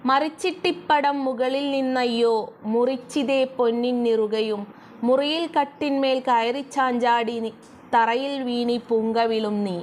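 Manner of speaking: slow, measured reading of the verse; slow lilting poem recital; poem recitation. Shown as a demonstration. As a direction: chant the line slowly like a recited poem. Teacher recites next verse.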